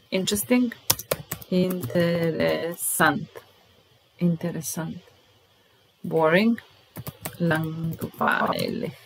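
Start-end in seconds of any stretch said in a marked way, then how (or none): 1.5-3.3 drawn out, syllable by syllable; careful slow pronunciation; slow model word. Shown as a demonstration. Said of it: "teacher models word slowly". 7.4-8.9 drawn out, syllable by syllable; careful slow pronunciation; slow model word. Shown as a demonstration. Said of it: "teacher models word slowly".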